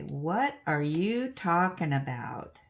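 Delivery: slow, emphatic mock bewilderment; retold bafflement. Recalling talks with ex-daughter-in-law, slow puzzled question. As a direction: draw out each word, playfully baffled. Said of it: "I'd have to say".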